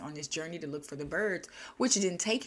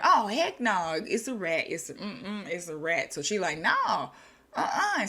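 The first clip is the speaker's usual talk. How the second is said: mock horrified refusal, bursting out loud; appalled refusal; 3 dB louder than usual. Milliner recoils from a rat, appalled refusal. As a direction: refuse it like a disgusted shopkeeper.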